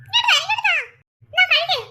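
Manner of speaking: calling someone over through laughter; laughing call. Acted. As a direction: shout it out while giggling. (ചിരിച്ചുകൊണ്ട് വിളിക്കുന്നു)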